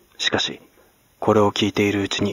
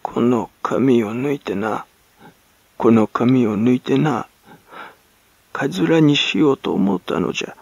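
crow-like gasping croak; 2 semitones higher than usual. Acted. Hag gasping her answer to the servant, crow-like croak. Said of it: "カラスの鳴くような声が、あえぎあえぎ".

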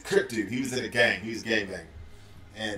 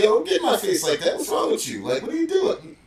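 raised, higher voice with a shout; retold shout; 9 semitones higher, 5 dB louder than usual. Supervisor shouting back at yelling coworker, raised and high. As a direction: push back loudly at him, pitch climbing. Confronting coworker who got in face.

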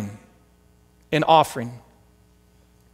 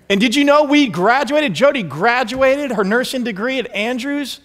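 high, lifted announcement of good news; excited news; 6 semitones higher than usual. Real, not acted. Preacher telling the congregation of graduating, lifted and high. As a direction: share the joy of graduating.

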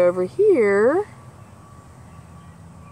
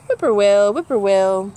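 whippoorwill call; 5 dB louder than usual. Acted. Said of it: "Whippoorwill has his favorite trill".

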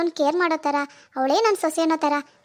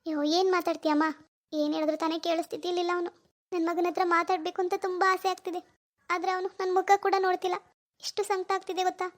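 fake sorrow; 3 semitones higher, 5 dB quieter than usual. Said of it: "ಅದಕ್ಕೆ ಇಷ್ಟೆಲ್ಲ drama".

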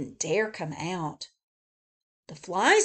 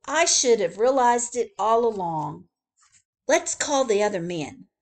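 zookeeper; 2 semitones higher, 6 dB louder than usual. Acted. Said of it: "cried the zookeeper".

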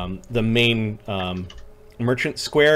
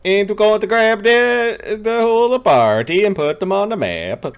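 put-on playful Swedish-accented voice, higher; sing-song Swedish accent impression; 9 semitones higher, 4 dB louder than usual. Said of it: "I used this voice while I was programming".

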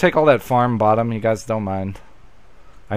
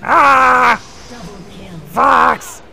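breathless fright; 12 semitones higher, 4 dB louder, much slower than usual. Acted. Shrieking while fleeing.

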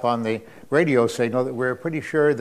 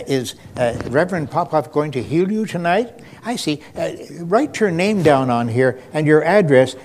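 light imitation of the preacher's wife; 3 semitones higher than usual. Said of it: "she would go down the aisles and say".

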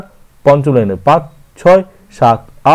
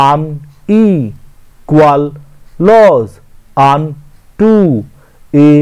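slow scansion reading; much slower than usual. Shown as a demonstration. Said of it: "stress ফেলার পালা".

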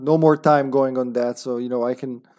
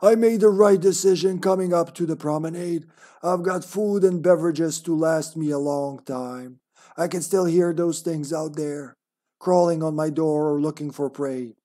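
monster voice. Acted. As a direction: read the diary like a mild monster. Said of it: "We'll just go with his monster voice".

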